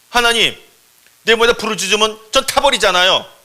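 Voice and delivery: high, loud cry of alarm; alarmed protest. Acted. Thornbush objecting to God about burning up, alarmed and loud. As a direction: protest loudly, as if about to be burned. Bush protests being set alight.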